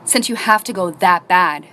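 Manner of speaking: slow, cold, fed-up teacher line, a touch slow; imitating a teacher's slow, pointed irritation; mild angry snap. Teacher handing over the pass, mildly angry and slow. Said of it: "like, so angry".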